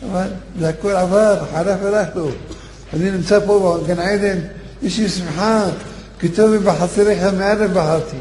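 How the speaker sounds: a hint of a happy departed soul; heavenly reassurance. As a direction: comfort him from paradise. Dream brother continues.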